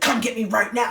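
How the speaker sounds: imitating an angry, frustrated dad; a heated order, acted out; demanding.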